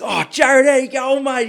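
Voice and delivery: high, loud, hearty imitation of the CEO's hello; CEO greeting. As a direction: play the boss greeting you like an old mate. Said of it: "he goes".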